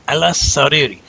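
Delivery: Aylas held on the s, then Sariri; doubled sin. Shown as a demonstration. Teacher showing the shadda, the sin said twice. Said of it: "you're gonna say Aylas as one syllable".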